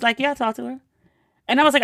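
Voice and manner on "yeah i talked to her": imitating an unbothered cousin, higher and softer; calm reply. Cousin answering about his flooded mother, calm. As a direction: answer softly, as if nothing is urgent. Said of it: "He was so calm".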